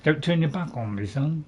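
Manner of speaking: a hint of a tough, butch voice; lightly butched-up warning. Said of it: "I said that in a very butch voice".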